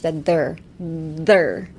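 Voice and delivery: "der" pushed out from a firm th; emphasis on th. Shown as a demonstration. Teacher isolating the end of weather, emphatic th. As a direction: hit the th in "der" as a separate syllable. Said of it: "put emphasis on the T H".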